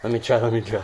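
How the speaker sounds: helium voice. Real, not acted. Breathing helium for fun.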